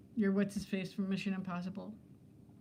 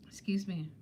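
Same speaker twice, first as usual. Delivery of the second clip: whispered excuse me; 2 semitones lower, 4 dB quieter than usual. Real, not acted. Burping aside, whispers apology.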